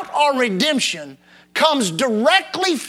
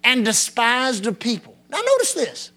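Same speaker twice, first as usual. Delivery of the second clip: scripture reading. Acted. Reads psalm in preaching voice.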